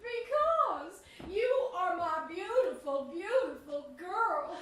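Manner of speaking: mother weeping with love for daughter; crying. Acted. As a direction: cry it out proudly. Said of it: "Why on earth are you crying?".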